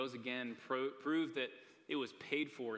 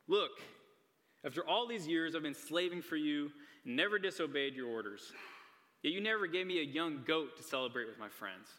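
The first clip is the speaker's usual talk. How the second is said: resentful son; 3 semitones higher, 4 dB louder than usual. Retold or imitated. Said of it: "he answers his father".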